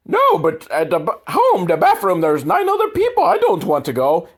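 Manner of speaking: put-on whiny kid. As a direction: whine like a spoiled boy who won't go. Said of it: "They're like".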